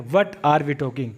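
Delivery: very slow, every word stretched; teacher's drawn-out example; slow demo. Shown as a demonstration. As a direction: drill it slowly for learners. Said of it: "मैंने इसके आगे what लगा दिया".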